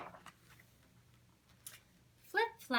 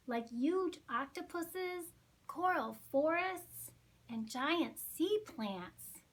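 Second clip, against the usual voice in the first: enthusiastic; 5 semitones higher than usual. Acted. Mary enthusing.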